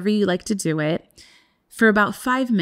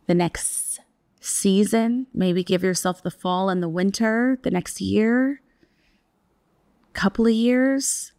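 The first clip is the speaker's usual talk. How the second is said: guided meditation. Acted. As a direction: ease listeners into stillness. Leads a breathwork practice.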